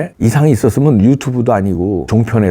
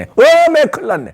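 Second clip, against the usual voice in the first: panicked dismay. Acted. Victim realizes he's trapped.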